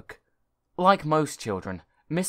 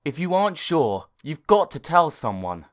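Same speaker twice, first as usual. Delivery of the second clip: louder, raised advising voice; firm machine advice; talking computer; 4 semitones higher, 7 dB louder than usual. Acted. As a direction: warn the boy firmly.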